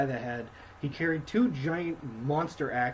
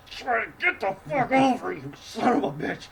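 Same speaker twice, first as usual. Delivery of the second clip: high, loud mock yell at Thorin; 10 semitones higher, 6 dB louder than usual. Dwarves yelling at Thorin to stop, loud and high. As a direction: yell up at him, half-acted.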